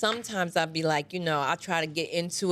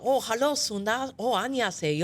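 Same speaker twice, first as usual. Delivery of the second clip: put-on Korean nail salon accent; 2 semitones higher, faster than usual. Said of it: "I used to do Kim Kim".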